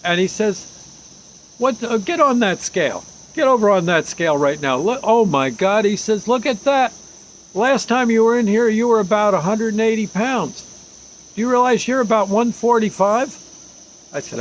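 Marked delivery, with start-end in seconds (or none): 1.6-13.4 lightly voiced bossy Army doctor, higher; old Army doctor. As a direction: bark orders like a blunt old medic. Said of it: "it's an old Army doctor".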